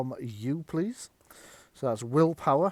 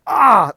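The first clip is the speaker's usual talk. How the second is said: sudden loud cry of pain, pitched up; pained yelp; 8 semitones higher, 14 dB louder than usual. Pretend. Game master voicing the hit player's loud pained yelp. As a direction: yelp as the tentacle thwacks you.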